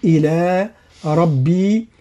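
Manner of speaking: "إلى ربي" slow, with the doubled ب in ربي held; shadda on ربي. Shown as a demonstration. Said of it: "هكذا". ("إلى ربي" بتشديد الباء)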